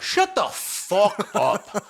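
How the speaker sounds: drawn out, word by word; slow disbelief. Real, not acted. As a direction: spell out each word in disgust. Disgusted at friend's explanation.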